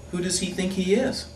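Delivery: high, affronted who-does-he-think-he-is; offended huff; indignant. Acted. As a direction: scoff it, outraged and high. Indignant rant about the architect.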